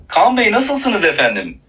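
slow, over-polite Istanbul Turkish; mock Istanbul accent. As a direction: put on refined Istanbul manners, drawn out. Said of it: "artık İstanbul şivesiyle konuşabiliriz". (abartılı kibar İstanbul şivesi)

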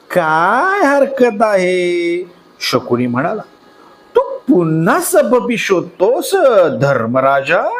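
slow, sly taunting uncle; a sly slow sneer; sly Shakuni. Acted. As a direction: needle him slowly, like a schemer.

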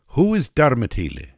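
baffled Russian woman's question; Russian hostess. A narrator's reading. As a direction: ask it high and loud. Russian woman quoted in story.

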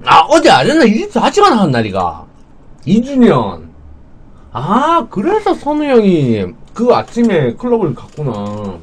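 talking while chewing; words muffled by food; mouth full. Real, not acted. Seen 0: Puts pink fish slice in mouth at -5, cheeks chew while talking.

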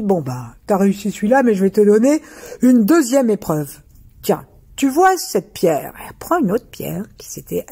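a giant bragging about his strength; booming giant. Acted. Giant sets second test.

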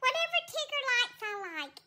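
hammed-up jealous squeal; Weezer voice. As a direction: burst in scandalized at the betrayal. Owner voices cat Weezer.

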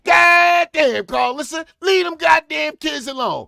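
loud exasperated yelling. Real, not acted. Yelling at Carlissa over the kids. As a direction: shout at her through the screen.

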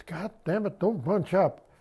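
calling out sharply to a driver bunching up; retold holler. Sergeant hollers at his Jeep driver to keep distance. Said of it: "I hollered at the Jeep driver".

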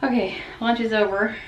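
winded from climbing stairs; puffing while talking; out of breath. Real, not acted. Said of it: "I'm huffing and puffing".

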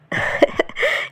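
soft acted chuckle; a short, voiceless little laugh. Grandmother amused by Shahd's request, soft chuckle.

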